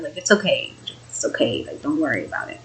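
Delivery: soft, low, soothing tail-off; reassuring. Retold or imitated. Telling mom not to worry, reassuring. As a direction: play down the worry, hushed.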